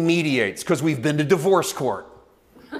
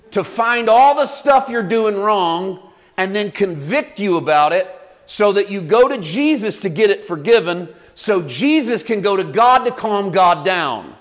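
preaching building up; 4 semitones higher, 4 dB louder than usual. Real, not acted. Preaching mocking view, raised voice.

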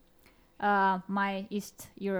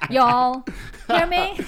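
loud, high call to the room; calling out y'all; 3 semitones higher, 9 dB louder, slower than usual. Pretend. Showing off a new accent to the hosts, a loud laughing call. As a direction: shout it out like a street greeting.

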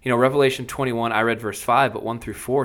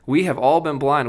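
a touch louder, eager declaration; crying out; 4 semitones higher, 5 dB louder than usual. Acted. Eagle tells the kings and queens, excited call. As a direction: announce the discovery with joy. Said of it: "he cried".

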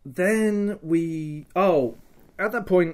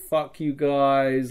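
nonchalant rudeness; much slower than usual. Retold or imitated. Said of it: "I'm being as nonchalant".

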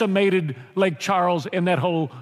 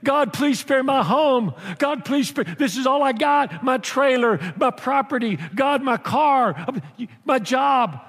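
mock tearful plea; 3 semitones higher than usual. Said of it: "they're praying and they're crying".

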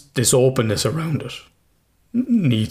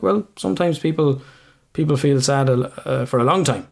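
put-on talking to a child; 4 semitones higher than usual. Explaining sadness to his son.

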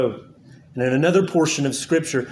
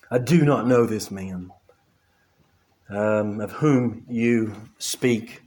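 Peter's denial; 5 semitones lower, 3 dB quieter, slower than usual. Acted. Peter's curse read from scripture.

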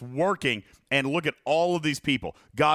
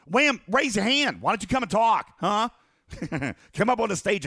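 excited calling out; 6 semitones higher than usual. Real, not acted. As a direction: call him up eagerly. Calling out to chat member.

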